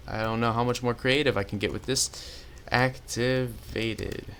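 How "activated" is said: "Activated" drawn out slowly, syllable by syllable; slowly spelled out. Shown as a demonstration. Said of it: "'cause I cannot spell".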